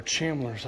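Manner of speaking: "Chalmers" garbled as CHAM-blerz; unsure pronunciation. Shown as a demonstration. Guessing at a car maker's name, fumbled "Chalmers". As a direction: say "Chalmers" with CH and the L moved late. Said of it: "don't even know how to pronounce it".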